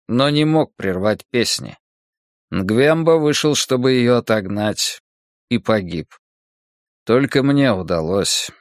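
устало, веско, чуть выше; рассказ о страшной ночи; голос монаха. Acted. (усталый голос монаха)

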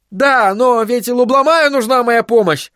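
high, heated retort; angry yell. Acted. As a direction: yell back in anger, pitch way up. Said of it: "заорал Айзек". (гневный крик)

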